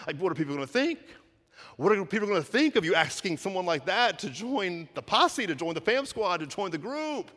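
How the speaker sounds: a disciple aghast at the choice; incredulous Peter. Pretend. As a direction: Peter objecting loudly to Jesus. Peter's objection voiced.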